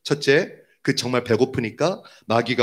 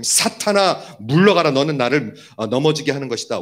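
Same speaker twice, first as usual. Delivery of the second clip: strong rebuke. Retold or imitated. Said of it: "엄청나게 강하게 얘기하시네요".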